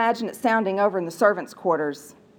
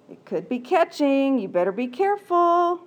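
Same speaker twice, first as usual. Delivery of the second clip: warning servant; 4 semitones higher than usual. Acted. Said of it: "here's what I think it might sound like".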